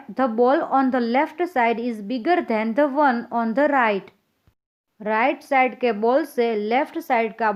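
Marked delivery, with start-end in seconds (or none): 0.1-4.1 very slow, evenly spaced English read to pupils; slow dictation reading. Acted. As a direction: read it word by word so children can follow. Teacher reads task slowly.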